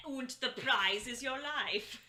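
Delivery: slow, laughing bad German accent. Back to the bad German host voice, laughing. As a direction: drawl it slowly in the German accent. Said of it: "my shitty German accent".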